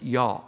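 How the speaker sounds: "y'all" with the L dropped, like "yaw"; Southern "y'all". Shown as a demonstration. Native teaching two-person "y'all", no L on it. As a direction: say "y'all" without any L. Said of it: "Don't put an L on it".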